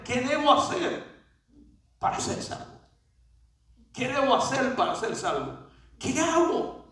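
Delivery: high-pitched, insistent question; acted plea. Preacher voices the jailer asking Paul and Silas, acted high plea.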